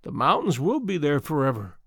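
a touch of wistful musing. Acted. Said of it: "repeated the woman, musingly".

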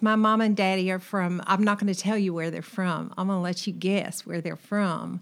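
relaxed Arkansas country accent; parents' Southern accent. Shown as a demonstration. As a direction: talk in your folks' Arkansas accent. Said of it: "this is what they sound like".

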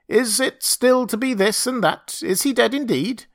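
high, strained ape-man question; anxious monkey man. Acted. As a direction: squeak it out like a nervous ape.

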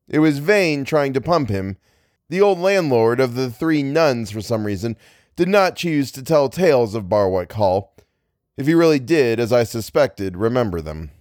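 measured, literary reading voice; story narration. A narrator's reading. Narrator recalling the old landlord, story narration. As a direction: read it out like an audiobook.

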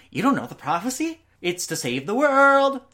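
put-on high, loud ecstatic old man. Old man telling the heroes about the prophecy, ecstatic and high. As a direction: burst out with joy, rising high.

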